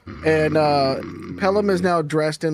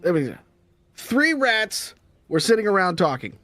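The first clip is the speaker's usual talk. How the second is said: higher joke-telling voice; comic telling rat joke; 4 semitones higher than usual. Acted. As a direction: hype the rat's toughness. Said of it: "he goes".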